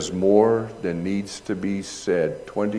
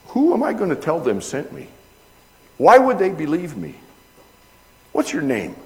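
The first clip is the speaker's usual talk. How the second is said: higher, louder, anxious questions; anxious Moses; 8 semitones higher, 6 dB louder than usual. Retold or imitated. Preacher voicing Moses asking God's name, pressed and high.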